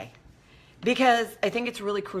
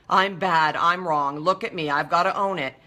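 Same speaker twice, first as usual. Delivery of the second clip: mock self-berating; 2 semitones lower, 4 dB louder than usual. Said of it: "beat myself up".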